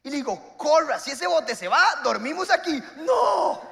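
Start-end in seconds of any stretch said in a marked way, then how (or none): 0.6-2.8 loud urgent retold yell to run; mock panicked order to run; urgent call. Urging friend to run for boat. 3.0-3.6 high squealed mock no; high imitated cry of no; panicked no. Friend's panicked reply.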